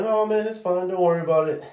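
high sugary fake-nice reassurance; falsely cheerful; fake friendly. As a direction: sound sweet while hiding a prank. Fake nice after shaking Coke.

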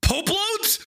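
high-pitched yelped question; startled yell. Real, not acted. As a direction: blurt it out way up high, incredulous. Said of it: "That's why I yelled pope loads".

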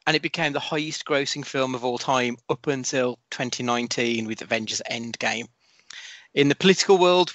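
podcast host reading a prepared intro; scripted read. Acted. Host continues scripted recap.

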